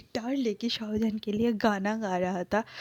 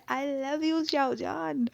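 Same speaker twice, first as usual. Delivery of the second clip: shouted declaration; 5 semitones higher, much slower than usual. A narrator's reading. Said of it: "चीख के कहता है".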